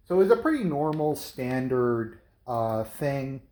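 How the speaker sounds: slightly heavy breathing. Real, not acted. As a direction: talk a little out of breath, jittery from coffee. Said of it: "Sorry if I'm breathing a little heavy".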